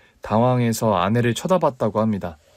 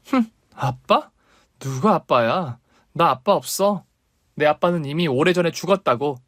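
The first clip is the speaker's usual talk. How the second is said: bitter daughter; 3 semitones higher than usual. Acted. Daughter rejects father.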